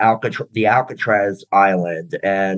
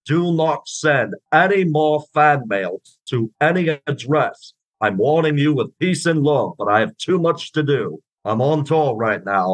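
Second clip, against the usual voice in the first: put-on light Liverpudlian accent, pitched a bit up, as a famous drummer; playful Scouse-accented drummer bit; impression of a famous drummer; 3 semitones higher than usual. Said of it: "could you do a little bit of him".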